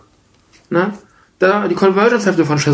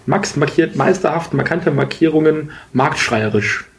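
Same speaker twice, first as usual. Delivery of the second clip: slow tongue twister; slower than usual. Shown as a demonstration.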